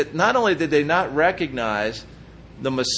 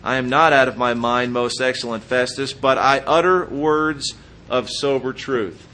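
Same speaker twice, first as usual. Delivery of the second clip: sober reply; 2 semitones lower than usual. Retold or imitated. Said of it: "what Paul says very soberly".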